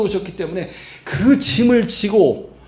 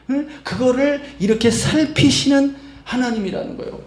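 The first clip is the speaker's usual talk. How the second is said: ordinary talk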